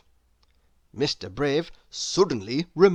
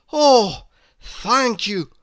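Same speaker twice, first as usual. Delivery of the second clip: relieved; 6 semitones higher, 7 dB louder, much slower than usual. A narrator's reading. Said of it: "with a sigh of relief".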